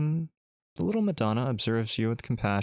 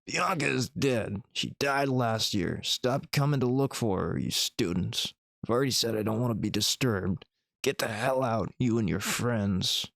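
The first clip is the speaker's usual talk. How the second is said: put-on grieving angry old man. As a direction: send the students away, grieving and fed up. Drunk old man angrily dismisses visitor.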